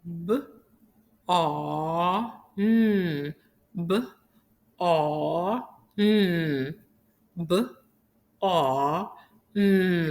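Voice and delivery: BARN as separate sounds, b, ar, n; sounded out. Shown as a demonstration. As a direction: say B, A, N sound by sound with gaps. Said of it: "to say each sound".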